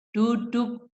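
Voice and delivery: firm, controlled one-word command; firm, not shouted. Shown as a demonstration. Teacher showing parents a firm "sit" for a child, firm and controlled. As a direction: say it firmly without raising a shout. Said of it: "Tegas itu bukan berteriak. Jadi umpamanya gini".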